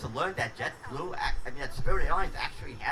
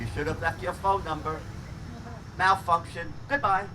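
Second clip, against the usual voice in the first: malfunctioning robot voice. Retold or imitated. Automated menu shuts down.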